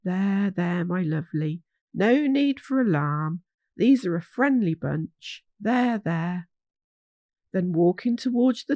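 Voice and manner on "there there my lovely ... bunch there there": calm a nervous animal gently; old hog gently settling a deer; soothing voice. Acted. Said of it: "Horace's soothing voice".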